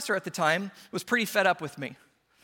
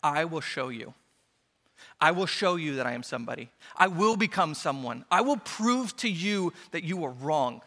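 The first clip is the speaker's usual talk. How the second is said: quiet determined vow. Retold or imitated. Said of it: "in my heart said".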